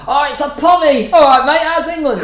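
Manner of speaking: high, loud hammed-up Australian bogan; terrible Australian accent. Bogan customers greeting an English cafe worker, in mock Australian. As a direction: shout it in a bad Australian accent. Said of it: "That's my terrible Australian accent".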